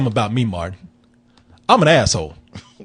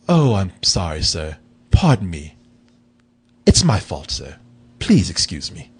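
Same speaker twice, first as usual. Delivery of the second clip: polite bear; 11 semitones lower than usual. Retold or imitated. The bear apologizing to the homeowner, low and extra polite. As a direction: apologize sweetly like a well-mannered bear. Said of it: "in the most polite way".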